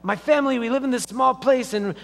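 put-on exasperated Jewish man, amateur accent. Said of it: "There's my Jewish accent. Sorry, the best I can do".

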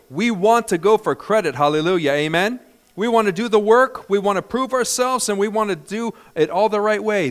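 rally the congregation with rising force; loud preaching. Real, not acted. Preacher builds, louder and higher.

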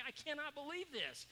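frustrated Jonah. Acted. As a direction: whine it like a prophet who wanted doom. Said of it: "now he's getting really frustrated".

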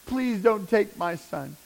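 high, slow, tearful begging; crying plea to God. Retold or imitated. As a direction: beg God to spare your son. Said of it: "I'm screaming again".

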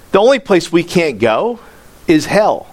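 self-righteous sneer. Retold or imitated. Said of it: "Listen to the self-righteous attitude".

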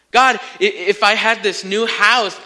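acted pleading prayer. Preacher retelling own prayer for a house, pleading. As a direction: re-enact begging for something.

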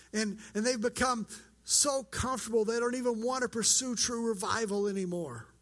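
mildly whiny, pouty protest; whiny complaint. Acted. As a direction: plead your case with a touch of self-pity. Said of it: "the most whiny voice he can muster up".

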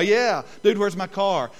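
lightly voiced young dude; young folks voice. Pastor mimicking young folks quoting the movie, light dude voice. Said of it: "some of y'all".

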